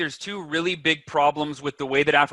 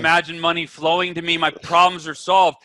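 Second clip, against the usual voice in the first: louder, mock blissful relief; 4 dB louder than usual. Broke person imagining money, louder mock bliss. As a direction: gush like it already worked. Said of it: "you're like".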